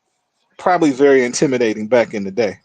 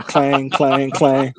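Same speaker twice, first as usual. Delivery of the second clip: imitated clang of keys; much slower than usual. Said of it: "threw 'em in the trash can".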